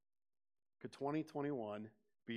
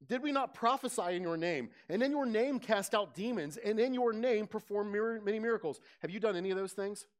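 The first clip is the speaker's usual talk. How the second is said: raised, loud pleading "Lord, Lord"; pleading preacher cry; 7 semitones higher, 6 dB louder than usual. Acted. Preacher voicing the claimants at judgment, pleading loudly. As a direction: cry it out as desperate claimants before the judge.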